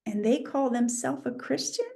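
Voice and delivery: softly imitated bafflement; baffled. Onlookers puzzle over un-Christlike behaviour, in a soft, baffled question. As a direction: ask it quietly, as a puzzled onlooker. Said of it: "it leaves people baffled".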